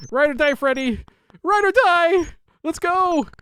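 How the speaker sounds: high, loud battle cry; rally the cat like a war cry; hype cheering. Real, not acted. Streamer cheering his cat Freddy on, hyped.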